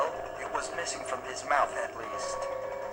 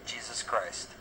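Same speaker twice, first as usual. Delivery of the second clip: hushed, under the breath; said silently; 3 semitones lower, 5 dB quieter, slower than usual. Acted. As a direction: barely voice it in shock. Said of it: "I said silently".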